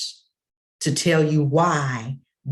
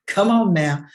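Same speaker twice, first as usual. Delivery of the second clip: preacher's exclamation; 4 semitones higher, 7 dB louder than usual. Real, not acted. Preacher urging congregation.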